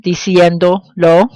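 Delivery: diciéndolo in two pieces, diciendo, then lo; slow diciéndolo with a gap before lo, rising; pronoun held apart. Shown as a demonstration. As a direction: separate the final lo in diciéndolo. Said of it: "when pronouns are added to a verb form".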